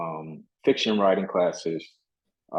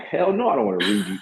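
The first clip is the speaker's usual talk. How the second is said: much higher-pitched mock protest; retold adamant refusal; 10 semitones higher than usual. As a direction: balk at the request, acting out your past self. Retold refusal to read letters.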